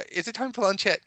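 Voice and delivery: put-on high pestering child voice; whiny kid. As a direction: nag like an impatient kid. Child pestering about lunch.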